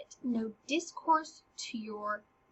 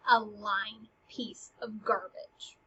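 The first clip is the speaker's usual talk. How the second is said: whispered insult; 3 semitones lower, 5 dB quieter, slower than usual. Acted. Paraphrasing Ophelia's insult.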